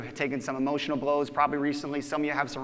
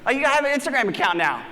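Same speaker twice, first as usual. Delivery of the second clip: mock exaggerated push; 6 semitones higher, 3 dB louder, faster than usual. Teasing friend about Instagram.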